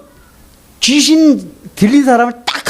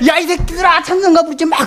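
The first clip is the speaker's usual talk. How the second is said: raised-pitch mock demonic yell; cursing possessed voice; 8 semitones higher than usual. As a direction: imitate the possessed woman railing at everyone. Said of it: "거기서 막 욕하고".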